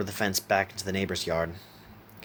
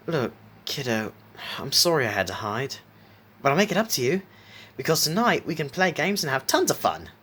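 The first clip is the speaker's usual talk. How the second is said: lightly voiced smiling playmate, lilting upward; 7 semitones higher than usual. A narrator's reading. Jack promises Isaac games tonight, with a smile in the voice. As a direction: build from apology to a higher, livelier promise. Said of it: "Jack said smilingly".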